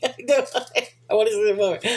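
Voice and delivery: said through a laugh; laughing eagerness. Real, not acted. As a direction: laugh while admitting you want it. Laughs while admitting eagerness for film.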